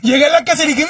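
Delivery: normal talking voice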